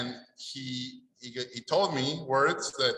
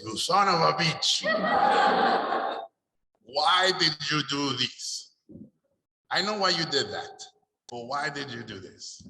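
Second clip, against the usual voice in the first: higher, louder astonished accusation; amazed exclamation; 3 semitones higher, 3 dB louder than usual. Retold or imitated. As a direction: marvel at him in disbelief. Teacher amazed by the paintings.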